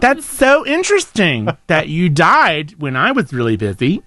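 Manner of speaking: slow, unimpressed sarcasm; sarcastic Martha. Pretend. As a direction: drag it out, not impressed. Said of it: "Said Martha".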